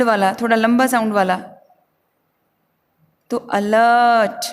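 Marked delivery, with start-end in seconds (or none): 3.4-4.4 अलर्ट drawn out very slowly, stress on the second syllable; slow stressed word. Shown as a demonstration. Teacher stretches out अलर्ट to show its stress, slow. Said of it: "जोर देते हुए बोलना".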